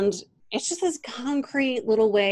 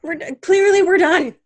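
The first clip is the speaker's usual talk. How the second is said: laughing; 9 semitones higher, 7 dB louder, slower than usual. Real, not acted. Still laughing, wrapping up.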